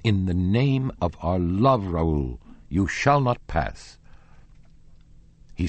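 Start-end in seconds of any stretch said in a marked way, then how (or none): 0.0-4.0 pleading. Acted. She bars the door, pleading.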